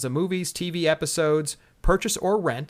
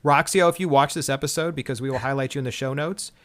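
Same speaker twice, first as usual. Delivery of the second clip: bitter; 4 dB louder than usual. Real, not acted. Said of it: "Do I sound bitter about this?".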